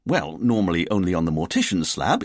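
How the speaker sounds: mildly jokey aside; keeping things light. Acted. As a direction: try a light quip to cover awkwardness. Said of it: "by way of keeping things light".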